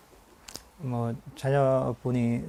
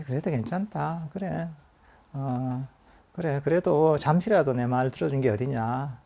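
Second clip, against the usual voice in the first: gentle soothing. Shown as a demonstration. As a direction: soothe the mind like a fragile kid. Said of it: "얘를 잘 달래줘야 돼요".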